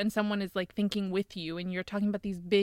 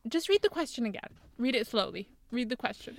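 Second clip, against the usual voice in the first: lightly mimicked teacher repeating an instruction; a hint of mock teacherly insistence; teacher's instruction; 3 semitones higher than usual. Teacher sending a student back to the question, lightly mimicked. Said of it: "They would be like".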